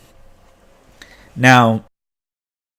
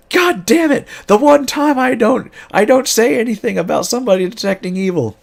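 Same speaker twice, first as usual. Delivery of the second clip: very high, loud cry of exasperation; frustrated outburst; 13 semitones higher, 4 dB louder than usual. Retold or imitated. Wizard player realizing the trap, loud high exasperated cry. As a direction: curse yourself for missing the obvious.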